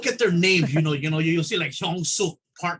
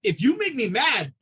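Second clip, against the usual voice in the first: mock threat to patient; 5 semitones higher than usual. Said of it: "I was like".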